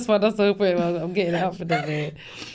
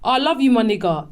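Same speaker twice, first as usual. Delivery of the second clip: a light, friendly greeting; mildly imitating a friend's affection; affectionate. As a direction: say it like fond banter with a mate. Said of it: "It's different".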